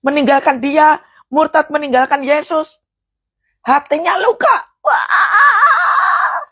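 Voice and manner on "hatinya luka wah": crying shout. Acted. Emotional climax about wounded heart.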